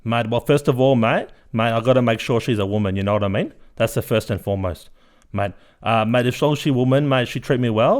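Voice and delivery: loud, brash blokey uncle voice with mate on every line; Uncle Guido character. Acted. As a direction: play the boastful uncle, cocky and loud. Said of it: "Uncle Guido, you are a character".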